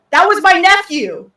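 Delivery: high, loud outraged cry; hamburger yelling. Retold or imitated. A hamburger juror yells out in court, outraged. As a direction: shout it like a wronged uncle. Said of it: "one of the hamburgers yell".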